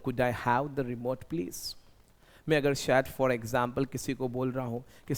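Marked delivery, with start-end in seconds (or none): 0.1-1.8 slow and soft, rising on please; slow polite request. Shown as a demonstration. Father asks his son for the remote, slow and soft. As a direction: ask gently and slowly. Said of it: "तो मैं ऐसा बोलूँगा".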